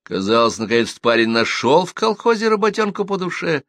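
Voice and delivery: ordinary delivery, nothing marked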